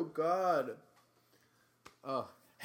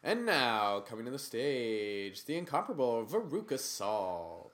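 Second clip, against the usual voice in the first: stage announcer; 5 dB louder than usual. Pretend. Announcing drag act on stage.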